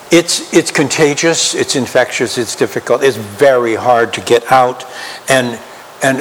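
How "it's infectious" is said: ordinary talk, nothing marked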